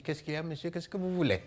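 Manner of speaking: a suspicious man mutters from the doorway; curt villager. Retold or imitated. The villager answers the stranger at his door, curt and quiet. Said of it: "il a fait comme vous faites ici".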